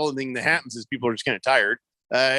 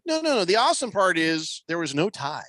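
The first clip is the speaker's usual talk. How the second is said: excited; 7 semitones higher than usual. Real, not acted. Excited point about no tie.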